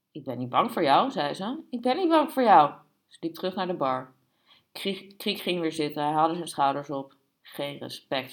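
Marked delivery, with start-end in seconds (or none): 1.7-2.7 raised voice, higher and louder; defiant repeat. A narrator's reading. Barmaid stands up to threatening customer, defiant. 7.4-8.3 low, softened undertone; whispered. A narrator's reading. Rebuffed customer to himself, whispered. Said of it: "fluisterde hij".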